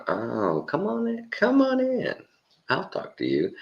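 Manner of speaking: very high, sing-out welcome from a demon; mock demon coaxing someone in; welcoming demon. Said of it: "the demon starts going".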